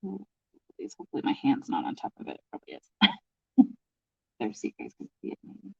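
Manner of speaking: talking while bent over. Real, not acted. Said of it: "I'm bent over this".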